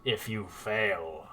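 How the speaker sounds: lightly voiced lizardfolk warrior laying down a threat; slow, firm, a hint of menace; stern lizardfolk. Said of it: "the lizard folk says".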